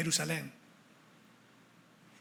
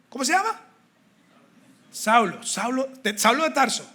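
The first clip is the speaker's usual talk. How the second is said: surprised; 5 semitones higher than usual. Acted. Ananías double-checks the name, disbelieving.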